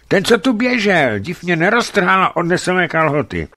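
high, loud frightened voice; shaken explaining. A narrator's reading. Hunter without trousers telling narrator, high scared voice. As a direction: blurt it out still terrified. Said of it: "vysvětlil mi koktavým hlasem".

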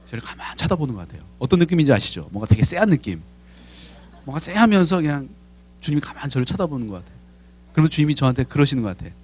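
ordinary delivery

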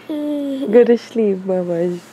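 slow, gentle bedtime coaxing; soothing. Real, not acted. Soothing child to sleep.

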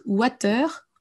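"water" with a French A and a pronounced R; "water" as a French learner says it; French-style water. Shown as a demonstration. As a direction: sound every letter of "water". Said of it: "on aura vraiment du mal à vous comprendre".

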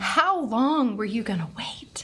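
whispery, emphatic retold reproach; hushed intense plea. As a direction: act out an urgent question under the breath. Retold driver's desperate plea.

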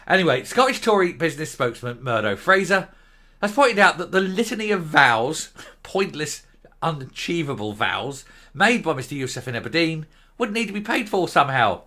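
reading the report aloud like a newsreader; formal news read with a touch of irony. Acted. Reads out the news item.

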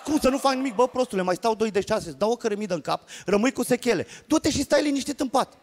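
worked-up inner debate; opposing inner voice. Acted. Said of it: "Pe de altă parte spuneam".

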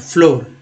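careful फ्लोर; pronunciation demo. Shown as a demonstration. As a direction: say फ्लोर with a falling o. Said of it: "ओ के रूप में उच्चारण हो रहा".

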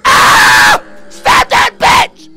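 high, loud screaming in panic; frantic screaming. Real, not acted. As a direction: scream for your life. Frantic fight with enemy.

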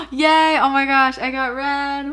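gasp, then high, loud delight; delighted high-pitched burst; excited cheer. Real, not acted. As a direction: cheer a lucky pull, high and thrilled. Pulls a second favourite card.

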